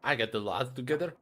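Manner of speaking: lightly voiced grumbling dwarf. Dwarf retells his morning.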